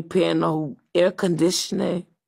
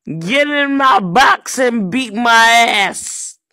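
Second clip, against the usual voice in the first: shout; 3 semitones higher, 5 dB louder than usual. Acted. Yelling an insult.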